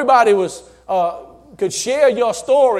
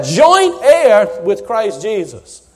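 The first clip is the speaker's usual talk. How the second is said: slow emphasis; 4 dB louder, much slower than usual. Real, not acted. Preacher savours the phrase.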